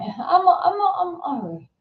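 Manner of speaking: high, breaking mock sob; imitating a tearful girl. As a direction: voice cracking as she fights tears. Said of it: "And she went".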